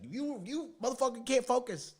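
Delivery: mock yell. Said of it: "King Dre always yells at me".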